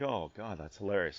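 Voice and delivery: low, quiet private amusement; amused to himself. Retold or imitated. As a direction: chuckle it under your breath without laughing aloud. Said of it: "I'm laughing to myself a little bit".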